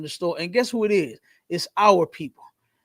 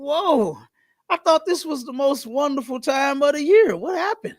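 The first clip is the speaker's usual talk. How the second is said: gossiping; 6 semitones higher than usual. Retold or imitated. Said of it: "I started gossiping".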